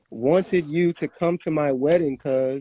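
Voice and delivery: reading it out slowly. Shown as a demonstration. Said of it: "I'm gonna read it slow".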